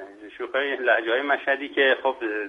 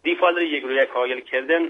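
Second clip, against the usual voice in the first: proverb in Mashhadi dialect; Mashhadi-accented Persian; 3 semitones higher than usual. Shown as a demonstration. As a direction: repeat the saying with a Mashhad accent. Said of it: "با لهجهٔ شیرین مشهدی".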